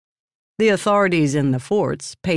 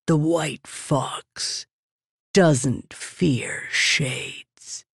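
whispering; 3 dB quieter, much slower than usual. Acted. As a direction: lean in and whisper slowly. Leaning in to tell.

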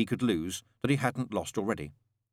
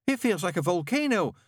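shouted; 9 semitones higher, 3 dB louder than usual. A narrator's reading. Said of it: "shouted Newt".

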